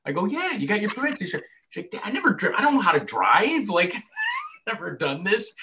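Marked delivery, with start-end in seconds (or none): 0.3-1.2 breezy dad. Retold or imitated. Dad to daughter. 1.9-5.5 put-on higher, panicky teen girl voice; mock panicked daughter. Daughter panicking when told to drive, high mock fear.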